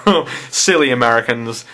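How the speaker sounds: chuckled, mock-pitying put-down; condescending. British commenters looking down on an American, condescending. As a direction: look down on them with amused pity. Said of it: "they're looking down on me".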